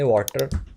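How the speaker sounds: "वाटर" with hard t and final r; everyday pronunciation. Shown as a demonstration. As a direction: say "वाटर" the desi way. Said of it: "हमें सिखाया जाता है इसको बोलना है".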